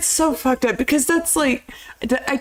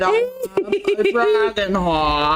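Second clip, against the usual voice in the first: drawn-out film impression; 3 semitones lower, slower than usual. Mock-quoting the dragon film's line.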